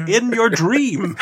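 high, laughing burst. Real, not acted. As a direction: crack up while saying it. Laughing at the whisper-yell idea.

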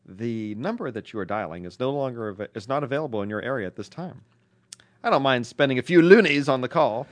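a light mock British accent on the quoted email. Host reading a listener's email in a lightly put-on British accent. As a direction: read the Canadian woman's note in a put-on British lilt. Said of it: "Why am I using a British accent?".

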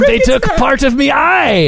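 pirate voice. Acted. Crazy round silly voice.

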